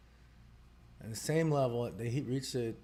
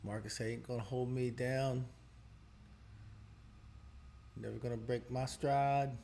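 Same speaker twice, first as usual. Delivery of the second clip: put-on Jamaican accent. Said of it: "said in, like, a Jamaican accent".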